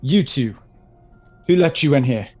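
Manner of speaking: indignant. Acted. Darnell confronts brownies.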